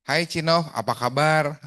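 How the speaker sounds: stock how-are-you opener, hammed up slightly; corny greeting. Shown as a demonstration. Coach mocking the standard opener on a call, corny greeting. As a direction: greet them with a stale, corny line. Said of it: "garing banget ya".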